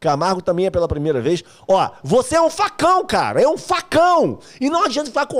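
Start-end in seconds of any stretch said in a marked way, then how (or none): 1.7-5.4 playful teasing shout. Acted. Teasing newcomer on live stream.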